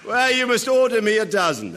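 high, delighted order; delighted command. Acted. Prince ordering forks from his friend, delighted. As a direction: pitch it up with eager amusement.

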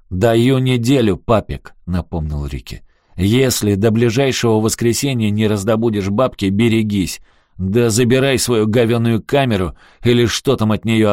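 a blackmailer warning the boss, sneering; parting threat. Acted. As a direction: threaten him on the way out.

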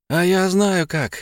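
high, slow teasing fairy; coy pixie voice. A narrator's reading. Fairy blonde speaks.

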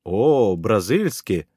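delighted. Acted. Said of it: "расплылась в улыбке она".

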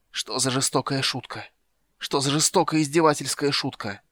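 rising cry of bitter disbelief; growing anguished disbelief; bitter outcry. Acted. Caramon reads a cruel note.

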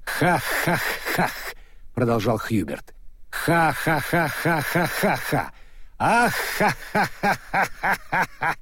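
slow, rising maniacal laugh; mad scientist laugh. A narrator's reading. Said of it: "безумный учёный".

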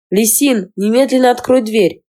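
put-on girl shouting at her friend's door. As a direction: demand she open the door now. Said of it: "закричала девушка".

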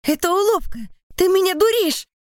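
very high, loud panicked denial; frantic accusing scream. A narrator's reading. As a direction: refuse the truth at full voice. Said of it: "кричу я ей".

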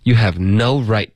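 slow, with weight on "no" and "right"; stress on "no right". Shown as a demonstration. Teacher answers where the stress is, stressing "no right". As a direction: land firmly on "no right". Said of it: "重音在哪儿呢".

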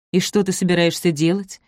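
ordinary delivery

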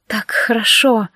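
slow breathy moan of pleasure. A narrator's reading. Olivia moaning to the demon, slow and drawn out. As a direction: sigh it out slowly, moaning. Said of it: "простонала Оливия".

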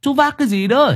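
put-on high-pitched old man's questioning; puzzled elderly man woken late at night; man of seventy. A narrator's reading. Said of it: "Một người đàn ông độ bảy chục".

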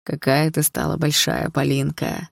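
slow smiling fatherly voice. Acted. Father greeting his grown daughter in a dream, smiling. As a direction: tease her gently with love. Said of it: "сказал папа, улыбаясь".

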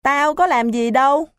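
high, straining protest of innocence; strained protest. Acted. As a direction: insist you did nothing, neck straining. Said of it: "Nó gân cổ phân trần". (gân cổ phân trần, giọng cao)

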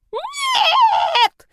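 squeal. A narrator's reading. Snake Yani squeals no as the witch grabs for the bra. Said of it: "завизжал он".

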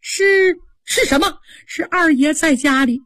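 high, tearful pleading with sobs; a scared servant girl blubbering out her excuse; high weepy voice, near sobbing; crying maid. Acted. Frightened maid pleads while crying.

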